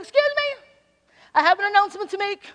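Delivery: put-on an old man making his big news; mock formal announcement; proud announcement. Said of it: "I'm gonna try to imitate Hank".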